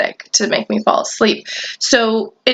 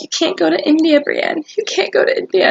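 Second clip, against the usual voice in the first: mock warning; 6 semitones higher than usual. Friend warns against India.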